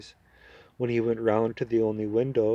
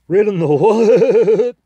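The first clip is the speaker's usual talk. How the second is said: slow, very high and loud neighing question; contemptuous neigh; 10 semitones higher, 14 dB louder, slower than usual. Acted. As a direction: neigh the words out in horse contempt. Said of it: "It came out more sort of a neigh".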